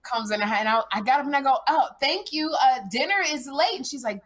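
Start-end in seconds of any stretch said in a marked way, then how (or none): 1.7-3.7 retold annoyed mother. Retells mother's annoyed greeting.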